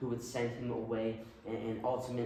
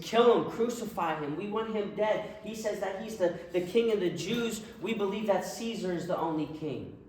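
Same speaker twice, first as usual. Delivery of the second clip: angry mob shout; 5 semitones higher than usual. Acted. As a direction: shout it up high like a furious mob.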